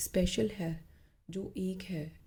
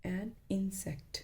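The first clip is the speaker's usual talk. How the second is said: slow whispered demo; 5 dB quieter, much slower than usual. Shown as a demonstration. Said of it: "ओके".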